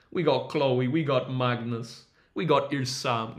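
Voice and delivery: slow roll-call with a Jamaican lilt; accidental, half-hearted Jamaican accent. Real, not acted. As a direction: slip into a light Jamaican accent. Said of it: "went for a Jamaican accent".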